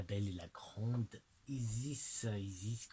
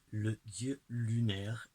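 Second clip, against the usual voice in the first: reverent announce; 6 dB louder, slower than usual. Real, not acted. Presenting the moon god card.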